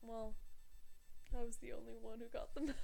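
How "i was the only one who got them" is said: laughing and crying. Real, not acted. Laugh-cry about Halloween.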